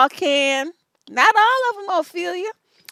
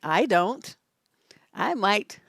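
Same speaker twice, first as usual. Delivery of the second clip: normal talking voice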